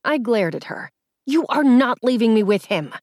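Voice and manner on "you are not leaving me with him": seething. Acted. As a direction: hold back fury, seething. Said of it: "I seethed".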